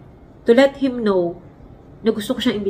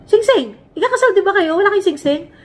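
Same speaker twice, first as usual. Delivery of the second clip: surprised judge; 9 semitones higher, 3 dB louder than usual. Retold or imitated. Judge asking about missing rings.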